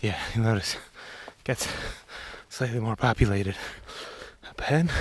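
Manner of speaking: winded after climbing stairs; breathless, puffing between phrases; out of breath. Real, not acted. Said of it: "Sorry, I'm so out of breath".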